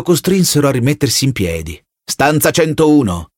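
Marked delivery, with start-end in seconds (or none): 2.0-3.3 slow, level, unmoved order; officer coldly repeating the sentence; cold officer reply. Acted. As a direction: answer the begging man flatly.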